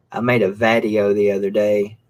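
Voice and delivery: "vadio" as vad-ee-oh, lightly imitated; mock "I made a vadio". Imitating Camel Toes saying "vadio". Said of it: "it's almost like".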